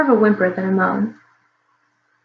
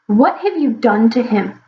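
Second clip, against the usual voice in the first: demanding; slower than usual. Acted. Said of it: "Snorty demanded".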